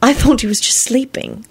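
put-on high, sad young girl; miserable girl voice. A narrator's reading. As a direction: voice her small and miserable. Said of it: "Elizabeth said miserably".

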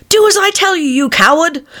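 high, sharp angry command; bully the servant into it; angry order. A narrator's reading. The Rabbit ordering Pat, high and angry. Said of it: "said the rabbit angrily".

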